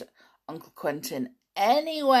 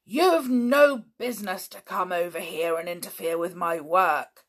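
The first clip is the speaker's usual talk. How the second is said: furious; 4 dB louder than usual. Acted. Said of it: "still looking furiously".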